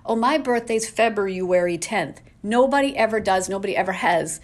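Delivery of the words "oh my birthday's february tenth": February said with a clear R in a mock sentence. Shown as a demonstration. Vlogger mocks someone saying February with the R. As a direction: keep the R in February. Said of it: "nobody says".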